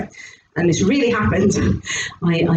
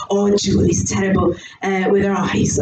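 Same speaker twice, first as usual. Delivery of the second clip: put-on husband voice, first accent; 5 semitones lower than usual. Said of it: "I keep changing the accent now".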